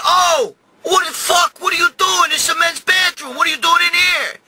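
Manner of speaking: high, incredulous scolding; outraged yelling. Retold or imitated. Confronting mother-in-law in men's bathroom.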